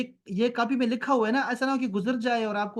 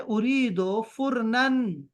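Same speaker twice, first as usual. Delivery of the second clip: slow Arabic line; much slower than usual. Shown as a demonstration. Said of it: "مشتری کہتا ہے".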